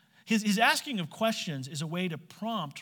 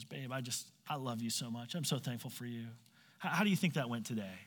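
much softer, low, lightly voiced husband; soft sweet-talk; 4 semitones lower, 7 dB quieter than usual. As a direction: coo it to your wife over candles. Adam sweet-talking at dinner.

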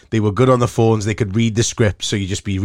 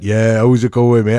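put-on slower, louder Welsh-accented reply; 5 dB louder than usual. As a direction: answer in a broad, unhurried Welsh accent. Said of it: "What's that accent?".

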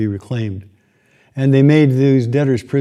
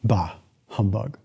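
low, slow, quieter sneer; lower, softer grumble of the miser; grumbling Scrooge; 3 semitones lower, 6 dB quieter, slower than usual. Acted. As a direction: drag it out like a bitter old man. Repeats Scrooge's line, lower.

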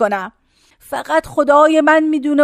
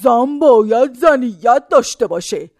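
man's voice; 2 semitones lower, slower than usual. Retold or imitated. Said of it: "مردی که ... جناق میشکنه".

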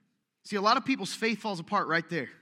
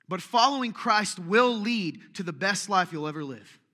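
preaching emphasis; 6 dB louder than usual. Acted. Preaching the key point.

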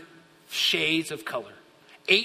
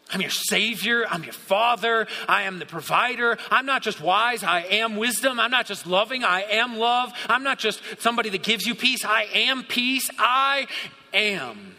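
building, emphatic proclamation, higher on each claim; God declaring Himself; 3 semitones higher than usual. Acted. Preacher voicing God's I AM to believers, building declaration. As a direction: declare each title with rising force.

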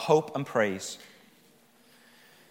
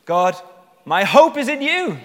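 raised, louder declaration to God; fervent cry of hope; 6 semitones higher, 7 dB louder than usual. Acted. Preacher voices the psalmist turning to God, fervent. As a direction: proclaim it high and wholeheartedly.

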